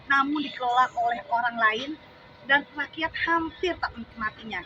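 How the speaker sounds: deliberate declaiming that lifts toward the refrain; poem recitation. Acted. Reciting a poem about national wealth to supporters, declamatory. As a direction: recite protest verse, stressing each phrase.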